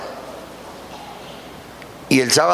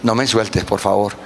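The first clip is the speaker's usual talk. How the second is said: tearful prayer; 4 semitones lower than usual. Retold or imitated. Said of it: "con lágrimas".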